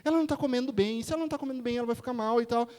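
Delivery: hammed-up anxious rattle of worries; wound-up mother. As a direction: imitate a worked-up mother spiraling. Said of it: "Pensa numa mãe pilhada".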